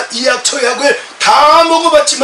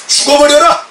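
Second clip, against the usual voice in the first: shouted rebuke, higher and louder; 4 semitones higher, 4 dB louder than usual. Retold or imitated. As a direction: yell it at the husband in anger. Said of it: "큰 소리로". (크게 소리치며)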